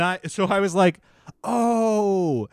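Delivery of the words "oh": drawn-out, higher reluctant reply; awkward refusal. Retold or imitated. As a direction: re-enact an uncomfortable, pitying letdown. Retold awkward refusal at the door.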